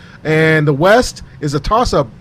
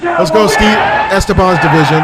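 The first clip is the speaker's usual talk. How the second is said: hype shout; 2 semitones higher, 3 dB louder than usual. Acted. Announcing the division hype.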